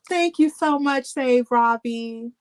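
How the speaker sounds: high, slow and drawn-out thanks; excited thanks. Real, not acted. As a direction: gush your thanks upward. Greeting a viewer warmly.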